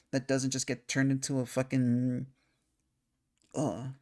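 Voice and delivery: talking through hiccups; hiccuping mid-sentence. Real, not acted. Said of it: "hiccuping a lot".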